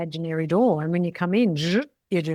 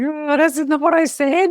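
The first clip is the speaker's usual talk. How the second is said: indignant; 10 semitones higher, 8 dB louder than usual. Retold or imitated. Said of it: "I say".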